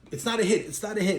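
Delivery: retold frantic warning shout; urgent call-out. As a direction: stop the shooting, call it out. Brother calls off the shootout.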